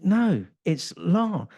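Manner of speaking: "long" said high and slow with the correct Thai tone; girlfriend correcting. Retold or imitated. Girlfriend coaching him on the Thai word, high and slow. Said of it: "She's saying".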